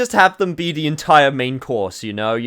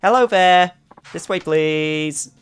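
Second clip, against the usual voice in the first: hammed-up French accent, raised pitch; playful mock-French welcome, drawn out at the end; bad French accent; 6 semitones higher, 3 dB louder, slower than usual. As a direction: greet guests in a put-on French accent. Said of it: "Your, your accent is very fun".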